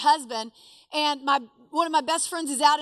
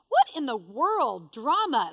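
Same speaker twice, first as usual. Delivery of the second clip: slow, drawn-out exasperation; scoffing disbelief; slower than usual. Retold or imitated. Woman scoffing at friend's evacuation photo, exasperated. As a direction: stretch it out, dismissing the fuss.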